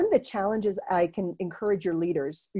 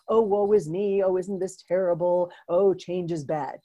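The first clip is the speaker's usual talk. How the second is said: mock tragedy. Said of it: "not a".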